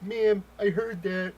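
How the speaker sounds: very loud, high, drawn-out put-on voice; hammed-up deaf man protesting; mock deaf voice. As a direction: pretend you can't hear how loud you are. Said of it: "I'm deaf".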